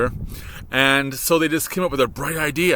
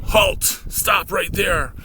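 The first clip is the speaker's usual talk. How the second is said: mock halt shout; 4 semitones higher, much slower than usual. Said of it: "bring everything to a screeching halt".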